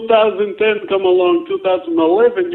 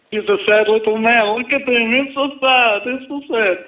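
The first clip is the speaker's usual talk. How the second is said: put-on higher, pitying voice in a Russian accent; mock pity; 4 semitones higher than usual. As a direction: mimic someone feeling sorry for a sad man. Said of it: "your friend put the head down".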